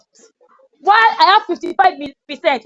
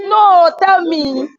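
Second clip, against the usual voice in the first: urging shout; much slower than usual. Real, not acted. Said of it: "urging a student to speak".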